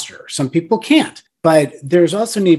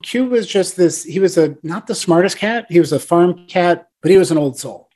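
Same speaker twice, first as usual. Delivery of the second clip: ordinary talk, nothing marked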